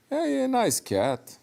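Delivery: high, slow, tender pet talk; cooing to a cat. Pretend. Preacher cooing to a pet cat, high and slow.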